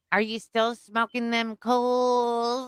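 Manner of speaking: grandma voice. Retold or imitated. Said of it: "she always used to ask me".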